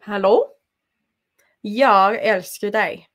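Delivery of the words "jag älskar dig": Jag älskar dig said slowly in Swedish; Swedish phrase. Shown as a demonstration. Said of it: "That's Swedish for I love you".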